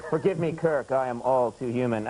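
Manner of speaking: hint of a solemn TV character, pitch sinking; Spock. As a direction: quote it with a touch of mock gravity. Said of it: "something Spock would say".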